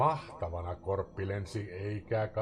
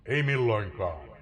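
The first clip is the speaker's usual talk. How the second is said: raven's cry; 6 dB louder than usual. Acted. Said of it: "Korppi huusi".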